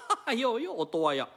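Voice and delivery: mock kabuki cheer.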